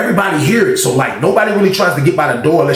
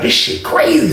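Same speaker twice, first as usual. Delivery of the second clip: high, breathed-out whisper; amazed whisper; 7 semitones higher than usual. Retold or imitated. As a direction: whisper it in disbelief. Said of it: "So I'm like".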